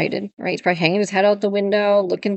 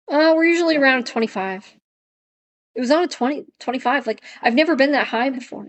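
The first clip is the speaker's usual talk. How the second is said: higher-pitched imitation of a client; lightly voiced client, pitched up and unsure of the number; client's reply; 4 semitones higher than usual. Client answering the trainer about collar levels, higher-pitched imitation.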